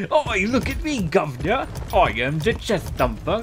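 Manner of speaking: high, loud silly cartoon character; hammed-up squeaky show-off; funny voice. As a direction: put on a goofy high voice. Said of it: "now make a funny voice".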